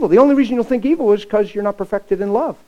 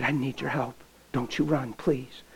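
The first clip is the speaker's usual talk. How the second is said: softer, low and pleading; soft plea; 7 semitones lower, 12 dB quieter than usual. Retold or imitated. Pastor pleading quietly with the girl to help. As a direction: beg her gently not to run.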